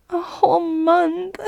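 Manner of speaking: shocked disbelief. Acted. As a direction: gasp it out in disbelief. Dismayed at being denied.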